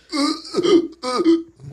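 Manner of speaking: cough. Real, not acted. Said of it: "It's out of breath".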